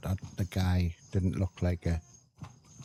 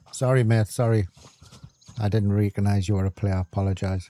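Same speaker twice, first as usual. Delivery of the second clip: loud apology; 6 dB louder than usual. Pretend. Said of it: "See if I can find him and says".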